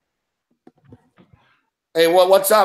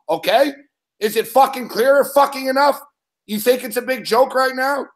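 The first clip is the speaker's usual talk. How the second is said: host scolding. Real, not acted. Host threatening caller Mick on air, firm angry scolding. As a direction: lay down the law, each word firm.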